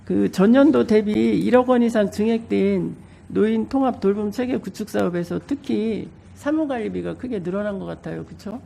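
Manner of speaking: speaking through a blocked nose; stuffy nose. Real, not acted. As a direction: voice thick with a cold. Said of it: "제가 감기에 걸려서". (감기 걸린 코맹맹이 목소리)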